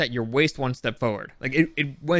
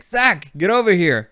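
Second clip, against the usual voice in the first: calling to a friend; 3 semitones higher, 5 dB louder than usual. Retold or imitated. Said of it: "And so I yell out at Zach".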